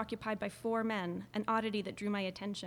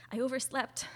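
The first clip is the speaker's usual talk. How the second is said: teeth chattering from cold; 5 semitones higher, 4 dB louder than usual. A narrator's reading. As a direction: speak through chattering teeth. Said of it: "I said through chattering teeth".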